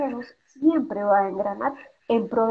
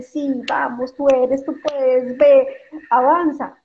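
a lightly voiced dad cheering his kid on, a bit louder; mock pep talk, rising energy; encouraging father; 2 semitones higher, 6 dB louder, slower than usual. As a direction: push them forward like a proud father. Father voiced pushing child forward.

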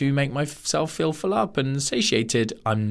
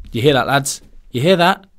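body as a gang boss; 5 dB louder than usual. Pretend. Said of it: "Your body's like".

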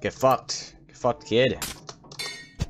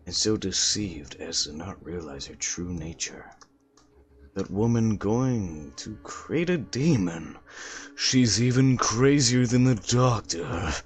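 put-on old man mumbling. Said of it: "Old man mumbles to himself".

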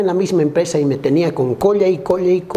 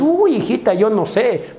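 lightly voiced mother, higher at first; mother answering; 5 semitones higher than usual. Mother answers her child's awkward question, lightly acted. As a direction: start high on a mock-flustered reply. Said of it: "Y su mamá dice".

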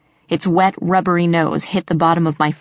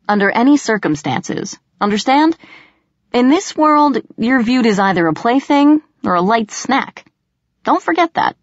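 stern warning; 6 semitones higher than usual. A narrator's reading. Puck whirls, firm warning.

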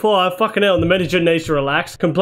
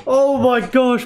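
tag; 5 semitones higher, slower than usual. Real, not acted. Laughs at his own miss.

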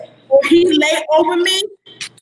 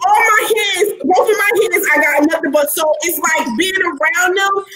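laughing exasperation; 2 semitones higher than usual. Real, not acted. Exasperated laugh about Aquarians.

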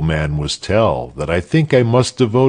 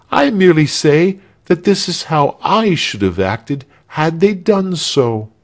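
higher-pitched, self-assured character speech; a light character voice, pitched up; lightly voiced self-assured speaker; 7 semitones higher than usual. A narrator's reading.

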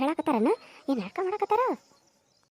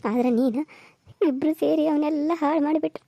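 tearful widow wailing louder over her husband; grieving widow; 3 semitones higher, 3 dB louder than usual. Acted. Widow weeping to her son, wailing louder. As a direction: cry it out like a new widow in his house.

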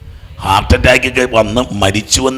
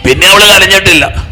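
higher and louder, stress on അവള്; emphatic repeat; 7 semitones higher, 7 dB louder than usual. Acted. Preacher repeating to the congregation, louder and higher. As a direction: hammer it home for the crowd.

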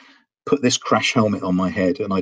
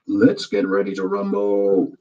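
slow drawn-out ring announcer call; boxing announcer. Retold or imitated. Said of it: "they all try to replicate that guy".

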